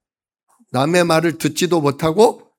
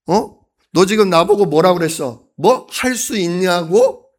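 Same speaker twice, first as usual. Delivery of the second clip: indignant retort; 3 semitones higher, 3 dB louder than usual. Retold or imitated. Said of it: "원래는 이런 뜻이에요".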